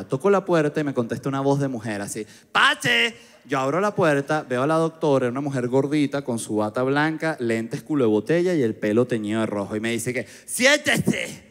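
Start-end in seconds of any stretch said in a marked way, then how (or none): 2.5-3.1 higher woman's call through the door. Retold or imitated. Doctor calls him in from behind the door, higher voice. 10.5-11.4 higher, drawn-out flat order; sit him down like a strange doctor; odd doctor. Retold or imitated. Strange doctor tells patient to sit, higher odd voice.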